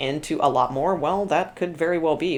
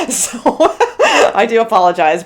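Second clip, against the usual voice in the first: high laugh into an apology; 5 semitones higher, 8 dB louder than usual. Real, not acted. Laughs at her own workload.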